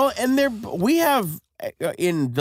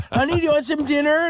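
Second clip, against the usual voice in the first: imitating sweet wife; 12 semitones higher, faster than usual. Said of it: "just being super sweet".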